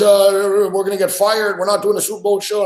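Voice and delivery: high, urgent imitation of a panicking colleague; mock alarm, pitched well up; retold panicky shaking. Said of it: "shaking and shit on the phone".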